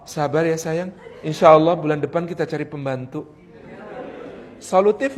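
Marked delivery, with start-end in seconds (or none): 0.0-3.2 lightly acted husband, low-pitched; suami menenangkan. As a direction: placate the wife in a lower voice. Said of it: "Nengok sebentar kemudian mengatakan". (suami sekadar menenangkan, nada rendah)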